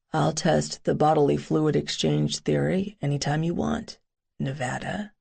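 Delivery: deep sexy voice. Acted. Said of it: "a deep, sexy voice said".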